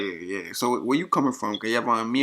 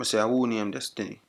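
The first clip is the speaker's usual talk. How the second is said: patois repeated more plainly; Jamaican accent. Acted. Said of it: "used my Jamaican accent".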